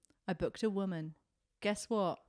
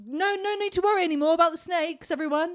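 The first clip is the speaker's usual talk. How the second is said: salesman voice; 6 semitones higher, 7 dB louder, faster than usual. Retold or imitated. Voicing a snake oil salesman.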